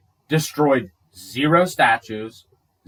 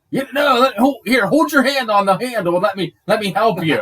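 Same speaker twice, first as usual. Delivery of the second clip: high, sweetly coaxing agent voice; mock FBI agent; 7 semitones higher than usual. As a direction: play the helpful agent setting him up.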